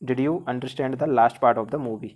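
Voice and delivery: each word slow and careful, like dictation; slow model reading. Shown as a demonstration. Teacher models the correct question for students, slowly. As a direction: read it slowly so learners can copy. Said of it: "इसलिए आपने इसको did से start किया".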